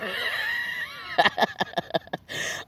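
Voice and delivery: high-pitched helpless laugh; a sudden shrieking laugh; real laughter that breaks out at a grim sight; burst of high laughter. Real, not acted. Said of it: "I don't mean to laugh".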